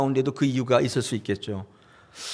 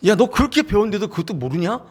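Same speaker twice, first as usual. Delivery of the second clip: a half-hearted acted rebuke, voice a little higher; mock scolding; 6 semitones higher than usual. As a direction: scold them like an annoyed fellow disciple, lightly played. Disciples scolding the two brothers.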